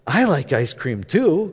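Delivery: slow, lightly imitated Dallas drawl; Southern belle's Dallas accent, gently put on. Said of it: "in her deep Dallas accent".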